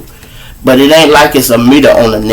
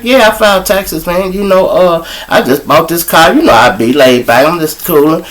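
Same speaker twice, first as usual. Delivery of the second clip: casual bragging; 6 semitones higher than usual. Retold or imitated. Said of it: "I'm like".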